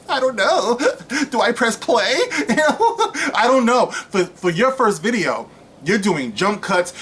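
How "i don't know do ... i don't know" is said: high giggly mock embarrassment, acted shy; mock coy giggle. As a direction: play the coy starlet giggling, higher voice. Mocking Brie's embarrassed act.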